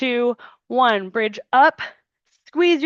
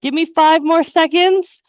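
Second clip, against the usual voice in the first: loud countdown; 5 semitones higher, 5 dB louder than usual. Real, not acted. Coach counting down final seconds.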